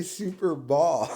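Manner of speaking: "Super Ball", open vowel in place of bowl; mispronounced Super Bowl. Retold or imitated. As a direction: imitate his slip on "Ball" in "Super Ball". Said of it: "So why does he say".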